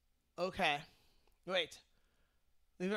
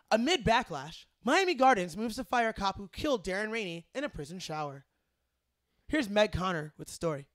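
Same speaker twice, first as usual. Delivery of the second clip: newscaster voice. Shown as a demonstration. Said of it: "a solid B plus".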